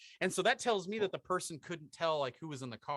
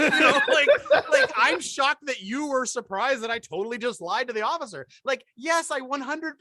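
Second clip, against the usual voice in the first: louder, higher words through laughter; laughing while talking; 7 semitones higher, 8 dB louder than usual. Real, not acted. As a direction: speak through giggles.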